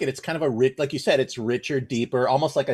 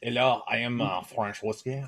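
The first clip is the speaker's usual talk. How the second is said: mock French voice; 3 semitones lower, 6 dB quieter than usual. Introducing the French whiskey in a mock French accent. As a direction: play the bottle as a French gent with a French accent. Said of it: "this French character here".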